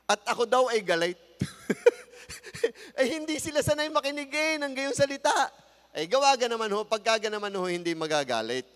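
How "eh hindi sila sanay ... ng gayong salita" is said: high, laughing words. Real, not acted. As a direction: chuckle through the telling. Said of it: "laughing while telling".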